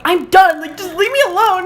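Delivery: high, loud re-enacted yell; dramatic retold shout, exasperated; emotional outburst. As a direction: yell back at a nagging parent, acted out. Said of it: "I would never be that emotional".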